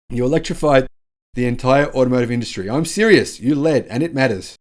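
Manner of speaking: punchy mock-presidential praise; Joe Biden. Host quoting the president crediting GM's boss, mock-earnest. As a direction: lightly imitate an insistent politician. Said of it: "amplified by U S President Joe Biden".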